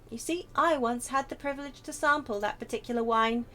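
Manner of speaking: starts composed, builds to grand fervour; courtly gentleman carried away by memory; rhapsodic wine lover. Acted. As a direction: swell into theatrical rapture. Character rhapsodises about wine.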